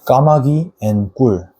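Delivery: 까마귀 and 꿀 fast with tight, breath-held Ks; tense Korean ㄲ. Shown as a demonstration. Teacher recaps tense 쌍기역 words. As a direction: squeeze 까마귀 and 꿀 out quickly. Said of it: "So you have to pause your breath beforehand".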